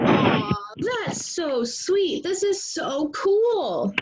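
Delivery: slow, breathy delight at the little bird. Acted. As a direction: gush over the cute bird, slowly. Reading Doug's delight.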